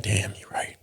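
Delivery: hushed, defeated whisper; sheepish whisper; whispered admission. Retold or imitated. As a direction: breathe it out, caught and guilty. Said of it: "You're like".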